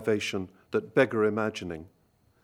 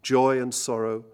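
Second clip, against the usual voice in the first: poetry reading. Acted. Lecturer reading Gurney's Poem for End to the audience, measured and grave. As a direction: read it gently and deliberately, phrase by phrase.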